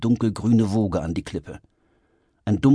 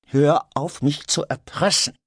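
tense, higher-pitched hissed warning; sharp hissed reproach; angry hiss; 7 semitones higher than usual. A narrator's reading. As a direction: hiss it at him. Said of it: "zischte Heinrich".

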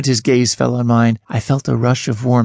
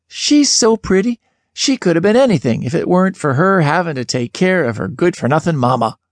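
gossiping neighbor voice; 4 semitones higher than usual. Retold or imitated. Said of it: "People were always saying".

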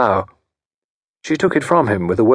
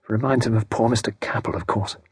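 softer, under the breath aside; sotto voce; 5 dB quieter than usual. Acted. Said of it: "sotto voce".

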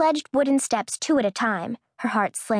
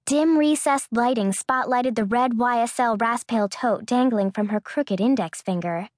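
ordinary delivery

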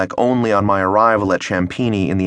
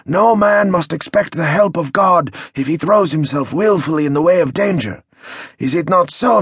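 higher, earnest elder's warning; solemn village elder; 6 semitones higher than usual. Acted. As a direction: warn them with pious gravity. Elder quotes sermon.

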